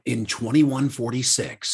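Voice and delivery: slow, low, dramatic date; movie trailer voice. Pretend. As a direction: announce the year like a trailer. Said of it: "you need to do it in your movie voice".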